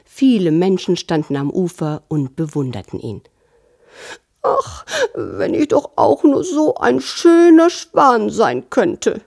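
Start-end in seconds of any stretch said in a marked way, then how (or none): 4.4-9.2 high, squeaky little sparrow voice; cartoon bird. A narrator's reading. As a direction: chirp it like a tiny wistful bird. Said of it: "piepste der kleine Spatz". (hoch piepsende Spatzenstimme)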